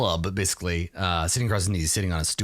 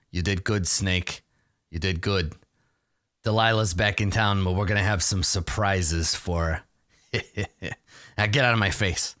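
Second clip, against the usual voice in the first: halfling mob boss; 4 semitones lower than usual. Acted. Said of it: "And he's like".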